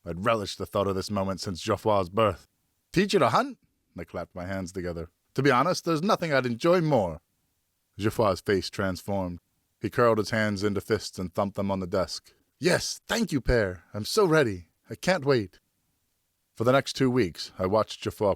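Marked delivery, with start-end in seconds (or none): 2.9-7.2 pleased, lifted father voice; a father thrilled at the request; delighted father. Acted. 12.6-15.6 put-on eager high boy voice; bursting with boyish excitement; excited boy. Son thumps desk excitedly.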